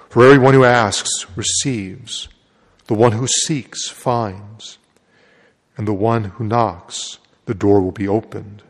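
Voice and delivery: solemn liturgical proclamation; gospel reading. Acted. Priest proclaims the gospel at Mass.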